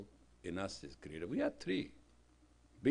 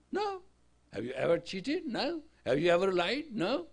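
quick-fire retold exchange; 8 semitones higher, 8 dB louder than usual. Rapid question and answer.

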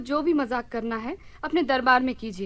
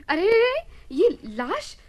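startled alarm; 4 semitones higher, 3 dB louder than usual. Acted. Queen startled by a corpse.

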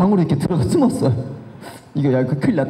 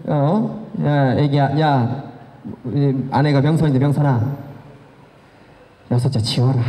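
low, halting late-night phone call; lightly acted, low-pitched heaviness; tipsy mother-in-law; 4 semitones lower than usual. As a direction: imitate a mother after a beer, pausing between calls. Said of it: "맥주 한잔 드시고".

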